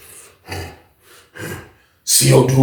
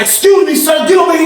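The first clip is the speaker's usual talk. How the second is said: booth lady; 14 semitones higher, 4 dB louder than usual. Retold or imitated. Booth lady ordering the inmate over, high stern call. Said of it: "She's like".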